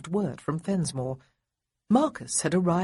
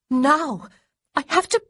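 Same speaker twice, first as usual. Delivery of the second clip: urgent shout; 10 semitones higher, 7 dB louder than usual. A narrator's reading. Honoria insists, cut off.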